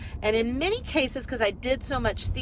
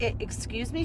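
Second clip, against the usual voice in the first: surprised; 6 dB quieter than usual. Retold or imitated. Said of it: "And we went".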